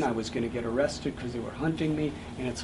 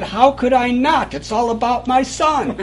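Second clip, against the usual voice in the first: with conviction; 10 semitones higher, 11 dB louder than usual. Retold or imitated. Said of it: "turned to me with great conviction and said".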